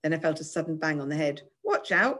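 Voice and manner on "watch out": high startled squeak; pitched-up yelp of words. A narrator's reading. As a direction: squeak in protest. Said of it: "I squeaked".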